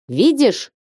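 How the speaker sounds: sharp excited cry; exclaiming. A narrator's reading. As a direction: call it out proudly. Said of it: "воскликнул он".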